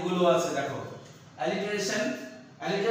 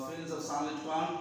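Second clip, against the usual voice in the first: slow soft reading; 3 semitones lower, 8 dB quieter, much slower than usual. Shown as a demonstration.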